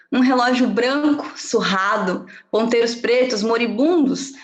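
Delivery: measured reading of a personal chronicle; storytelling delivery with deliberate pauses; literary reading. Acted. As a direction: read your own story aloud, pausing between images. Reads her own chronicle aloud.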